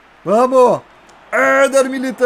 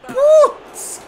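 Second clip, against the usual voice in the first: sharp high exclamation; surprised; 4 dB louder than usual. Real, not acted. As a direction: yelp at the near miss. Near miss on free kick.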